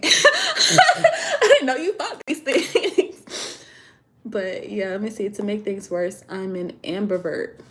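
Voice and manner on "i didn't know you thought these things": high, very slow, laughing mock disbelief; mock shock. Repeating what her baby daddy said, in laughing mock shock. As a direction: drag it out in laughing fake shock. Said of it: "listening to him like".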